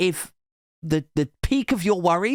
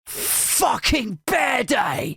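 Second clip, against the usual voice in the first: slow, higher protest shout; mock shout; 5 semitones higher, much slower than usual. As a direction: bellow the placard slogan. Bear waving placard shouting.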